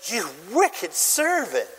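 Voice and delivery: slow, weighty rebuke; stern reading of the master; rebuking master. Acted. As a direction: draw out "wicked" in condemnation. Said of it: "he said".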